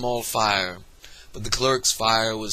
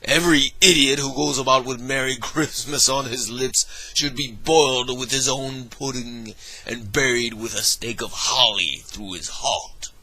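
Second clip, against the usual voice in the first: indignant; 2 semitones higher than usual. Acted. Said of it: "said Scrooge indignantly".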